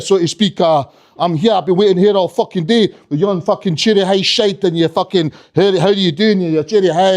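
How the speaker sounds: put-on menacing Scottish kid rant; relentless threats in a thick Scottish accent; Trainspotting-style Scottish accent. Scottish kid threatening Santa over a bike, menacing Scottish accent. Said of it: "this little kid reminded me of Trainspotting".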